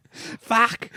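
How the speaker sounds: high-pitched comic yelp; panicked koala cry. Acted. Friend playing a koala blowing out flames, high panicked cry. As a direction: squeal it like a fleeing koala.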